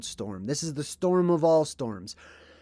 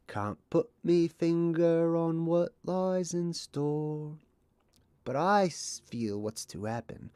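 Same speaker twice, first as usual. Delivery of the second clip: Cockney Bert voice; slower than usual. Retold or imitated. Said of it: "He says".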